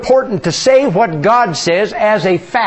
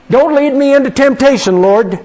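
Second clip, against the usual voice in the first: higher, louder mock plea; pleading request; 7 semitones higher, 4 dB louder than usual. Pastor mimics praying it as a worried request, raised and loud. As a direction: beg it like an anxious petitioner. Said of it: "read that as a request".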